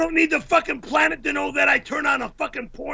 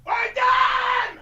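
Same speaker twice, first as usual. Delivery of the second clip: angry shout; 10 semitones higher than usual. Real, not acted. Quitting in anger.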